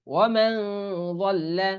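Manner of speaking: ওয়ামান said with the ন hidden in nasal hum; correct ikhfa. Shown as a demonstration. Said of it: "এখানে ওয়ামান যাল্লা পড়া যাবে না". (সঠিক ইখফা গুন্না)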